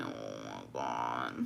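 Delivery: slow, barely audible mortification; muted disbelief. Retold or imitated. Reacting to grandma fat shaming her, muted disbelief. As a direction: let it out tiny and drawn out.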